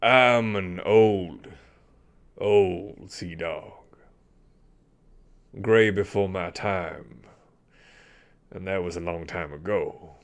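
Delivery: put-on slow, heavy old sailor voice; an old captain haunted by memories; weary old sea dog. GM voices the Commodore.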